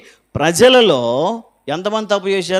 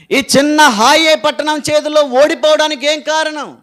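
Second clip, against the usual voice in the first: a grieving, pleading cry with little real sobbing; lamenting prayer; 3 semitones higher than usual. Acted. Joshua pleading with God over the lost battle, a lamenting voice. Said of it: "గట్టి గట్టిగా ఏడవడం ప్రార్థన చేస్తూ".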